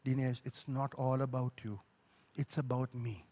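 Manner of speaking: low, hushed, unhurried correction; soft, fatherly reproof; gentle voice of God. Retold or imitated. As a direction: drop right down and tell him quietly. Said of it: "He spoke to me in the middle".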